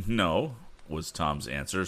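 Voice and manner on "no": smiling no after a laugh. Acted. Tom answers the driver with a smiling no. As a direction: let the smile in as he answers. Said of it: "smilingly given".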